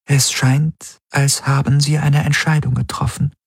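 a hint of a machine voice. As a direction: speak as the ship's AI, even and composed. The ship's AI Helix reports.

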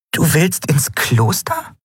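high, slow, puzzled question; small character, drawn-out confusion; confused. A narrator's reading. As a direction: ask in high-pitched bewilderment. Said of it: "fragte Nelen verwirrt".

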